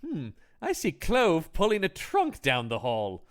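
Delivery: slow, deliberate mock reading of a character; lightly acted, measured observation to oneself; film character's line. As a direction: state it slowly, as if narrating your own discovery. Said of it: "And he does go".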